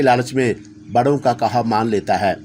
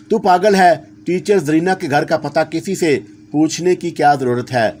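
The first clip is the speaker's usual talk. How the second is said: annoyed, scolding his friend; irritated retort; 3 semitones higher than usual. Acted. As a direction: snap back impatiently. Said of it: "Gangu ने नागवारी से जवाब दिया". (चिढ़कर जवाब)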